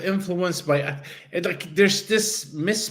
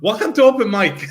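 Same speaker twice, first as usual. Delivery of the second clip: high, loud welcome through laughter; laughing; 10 semitones higher, 6 dB louder than usual. Real, not acted. Host welcoming listeners after a technical issue, laughing. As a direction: laugh your way into the greeting. Giggling host restarts the intro.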